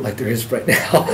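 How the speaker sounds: real lump in the throat; choked up. Real, not acted. Father recalling facing his daughter, choked up. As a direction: voice catching, breaking into a wordless shudder. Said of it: "such a lump in my throat".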